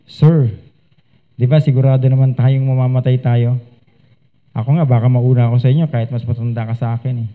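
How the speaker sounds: put-on gentle soul-winner warming up an old man; gentle friendly approach. Shown as a demonstration. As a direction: ease into it kindly like a friend. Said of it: "pagaanin naman natin yung loob niya".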